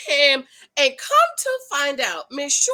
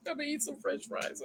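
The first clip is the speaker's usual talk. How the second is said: silly voice; 13 dB quieter, faster than usual. Pretend. Repeats line in silly voice.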